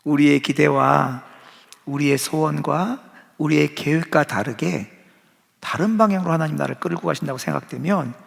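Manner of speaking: normal talking voice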